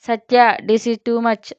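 slow, indignant protest; mild wounded pride, slowly. Acted. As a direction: drag it out, a touch offended. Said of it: "పౌరుషంగా".

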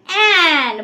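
"অ্যান" with a long held vowel, falling; pronunciation demo. Shown as a demonstration. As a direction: model "অ্যান" clearly for repeating. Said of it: "উচ্চারণ করলে কি হয়". ("অ্যান" স্বর টেনে স্পষ্ট উচ্চারণ)

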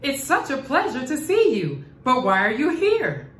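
put-on delighted to see an old friend; joyful surprise. Nyasha asks the snake why he is here, lightly delighted. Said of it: "she exclaimed".

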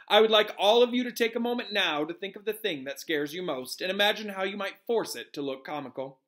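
emphatic, animated professor; Professor Lupin teaching. Acted. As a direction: lecture the class with gusto.

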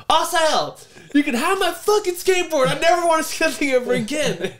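loud, high furious outburst; shouting at friend to take skateboard; retold angry yell. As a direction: fling the words away in rage. Angrily giving skateboard away.

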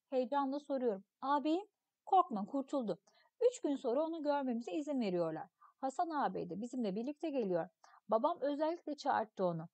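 put-on expressive read-aloud of a children's story. Teacher reading a story text to pupils, expressive narration. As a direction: read the tale to the class, acting the voices.

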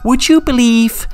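gloating villain. Acted. Brian gloats to Sam, mildly menacing. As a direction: savour every word of the trap.

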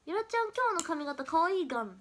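imitating a friend's lively Okayama dialect. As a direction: play back a friend's Okayama-style praise. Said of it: "感じで言ってきてくれるのね".

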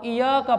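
इय्याका with a single light y, i-yaa-ka; common mispronunciation. Retold or imitated. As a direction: say इय्याका without doubling the y. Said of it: "यहाँ गलती ये करते हैं". (इय्याका, शद के बिना)

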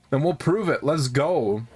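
lightly put-on ogre voice; Shrek. Gamer voicing a gang ready to prove itself, Shrek voice. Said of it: "I'm not trying to do a Shrek voice".

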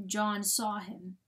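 ordinary delivery

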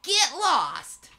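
drawn-out mock-Italian dismissal; heavy Italian accent. Officer dismissing the detective, mock Italian accent. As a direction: brush them off in a hammed-up Italian accent. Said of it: "In his heavy Italian accent".

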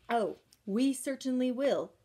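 a prim, haughty sniff of a reply. Acted. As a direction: answer with a lofty little sniff.

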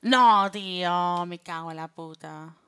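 loud, very drawn-out protest; exasperated cursing. Real, not acted. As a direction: drag out the outraged no. Arrested in the game.

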